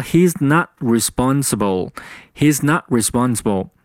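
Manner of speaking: "not" with its final t unreleased; teacher's demo, no burst on the t of "not". Shown as a demonstration. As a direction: hold back the t in "not" before responsible. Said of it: "这句话就变成了".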